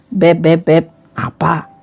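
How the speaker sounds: coaxing a partner in a low voice; low, gentle pet-name call, role-played; membujuk pelan. Role-play: coaxing an angry partner. (membujuk lembut dengan suara rendah)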